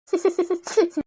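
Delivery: quiet wordless chuckling; soft laugh. Acted. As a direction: let out a soft little laugh. Short wordless sound after scolding.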